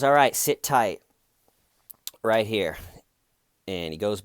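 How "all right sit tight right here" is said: loud cop order. Retold or imitated. Cop calmly tells driver to wait.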